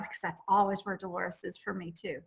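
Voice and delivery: usual speaking voice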